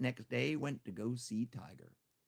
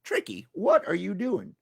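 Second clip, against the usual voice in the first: teasing friend; 8 semitones higher, 9 dB louder than usual. Acted. Friends voiced in told story.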